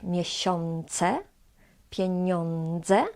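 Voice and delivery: miesiące, pieniądze with n near the palate. Shown as a demonstration. Teacher recalls earlier examples for comparison, ą as on. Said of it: "pronounced before".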